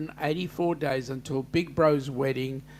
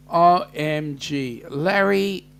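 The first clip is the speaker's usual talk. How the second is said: exclaiming; 6 dB louder, slower than usual. Real, not acted. Exclaiming at viewer.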